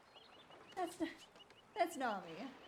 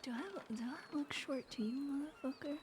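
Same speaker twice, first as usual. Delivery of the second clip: menacing whisper; 2 semitones lower, 6 dB quieter than usual. Acted. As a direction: hiss the threat softly. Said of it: "unvoiced whisper".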